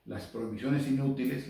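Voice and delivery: ordinary talk, nothing marked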